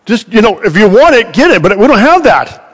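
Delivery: hammed-up irritated shopkeeper; retold angry outburst. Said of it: "he was mad".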